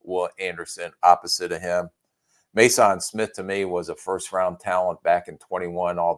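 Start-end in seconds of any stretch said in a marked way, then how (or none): 2.5-3.0 Mason said as "may-SAHN"; French-style pronunciation. Real, not acted. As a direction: give Mason a mock-French open "ahn" ending. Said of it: "it's my French accent".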